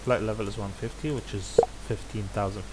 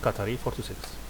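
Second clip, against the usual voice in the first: radio readback. Shown as a demonstration. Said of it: "he made a mistake and he's correcting".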